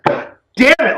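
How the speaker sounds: high, exasperated mock curse; frustrated outburst. John reacts to learning of the hit, frustrated. Acted outburst at forced blood debt.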